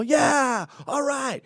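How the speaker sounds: a light stadium whoop; mock sports cheer. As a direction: cheer like a happy spectator. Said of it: "normal sports yell".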